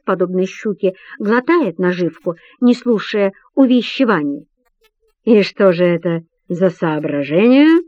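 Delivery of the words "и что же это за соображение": feigned interest. Acted. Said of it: "нарочито заинтересованным тоном".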